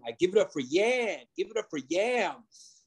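imitating an emcee calling him up; emcee intro. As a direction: hype it like a club host. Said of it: "you'd hear everything".

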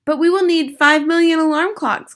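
high-pitched protest from the crowd; crying out. Acted. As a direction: object as a worried witch audience. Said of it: "cried the audience".

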